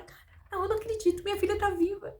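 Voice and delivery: high, stunned disbelief; acted astonishment. Preacher as parents whose daughter is alive, acted astonishment. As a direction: start breathy, then rise into amazed joy. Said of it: "Isso os deixou atônicos".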